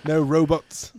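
a hint of put-on Australian accent; attempted Australian accent. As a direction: tack it on in a rough Australian accent. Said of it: "best Australian accent I got".

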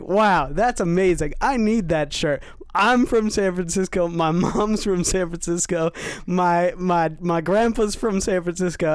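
imitating an over-eager street stranger; gushing stranger. Stranger wanting the work shirt, gushing excitedly.

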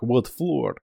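lightly put-on Russian accent; a hint of Russian accent, offhand; mistaken Russian accent. Elevator passenger asking the courier, light Russian accent. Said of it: "I don't know why I did Russian".

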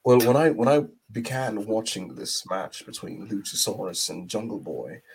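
a light British accent, mildly put on; lightly voiced British accent for a wrestling review. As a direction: review the match as a posh English pundit. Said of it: "in the British accent".

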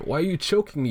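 high, protesting mock victim; acted alarmed protest. Voicing Tails being choked.

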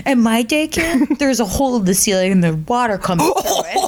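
put-on earnest small-child report, on the edge of laughing; preschooler. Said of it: "he goes to preschool, and he's like".

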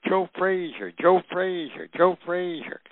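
high excited calling out, a name shouted again and again; kids yelling. Retold or imitated. Little kids excitedly calling out to the boxer. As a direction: call his name up the hill like starstruck kids. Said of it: "come running down the hill yelling".

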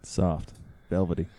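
low, hushed velvet voice; soft, velvety. Pretend. Host teasing co-host about his own voice, velvety. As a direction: drop it soft and low, luxuriating in it. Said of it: "the sound of this velvet".

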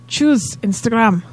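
drawn-out Scottish film riff; Scottish accent. Pretend. Friends riffing on Trainspotting, slow Scottish accent. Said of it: "He's doing a Scottish accent".

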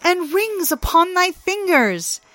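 high, gleeful trickster; teasing Loki. Acted. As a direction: pile on the insults gleefully. Loki mocking Thor.

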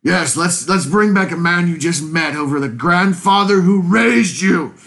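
mock agreement building to indignation; sarcastic. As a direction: pile on the sarcasm, punching the last words. Sarcastic retort about reviving Roshi.

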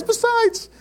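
very high, slow-ending mock Jewish accent; Jewish English accent. Israeli friend explaining Jewish patience, hammed-up Jewish English accent. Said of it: "I can't do a Jewish accent".

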